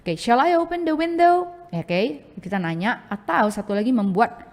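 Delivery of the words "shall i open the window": much higher, lilting demo question; "Shall I open the window?" sung up high as a model sentence; example question. Shown as a demonstration. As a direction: pitch it up like a polite offer. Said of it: "yes no question".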